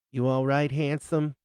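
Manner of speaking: New Jersey drawl, checking on him. Acted. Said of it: "with that New Jersey drawl of hers".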